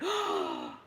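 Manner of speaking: mock shocked intake of breath; imitated gasp. Mum reacting to seeing the bruise, mock gasp.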